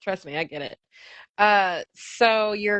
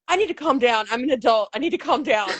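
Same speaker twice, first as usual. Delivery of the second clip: put-on ranting girl; 2 semitones higher, faster than usual. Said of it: "then she goes".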